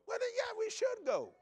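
squeaky sarcastic comeback; sarcastic high retort. Acted. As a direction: toss it back with sarcasm.

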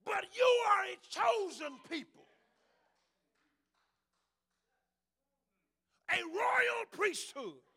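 loud, high, slow preacher's proclamation; shouted proclamation. Real, not acted. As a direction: declare it at the top of your voice. Climactic line shouted to congregation.

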